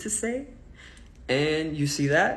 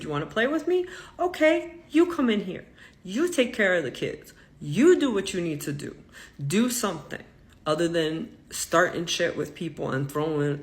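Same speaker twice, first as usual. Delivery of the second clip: angry retort. Retold or imitated. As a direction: snap back at the boss, pitched way up. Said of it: "so now I'm getting mad".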